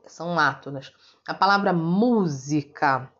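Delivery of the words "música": "música" slowly, with a long strong first MU; teacher sounding out "música" to show its first syllable; stress on MU. Shown as a demonstration. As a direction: lean on MU in "música". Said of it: "o mu".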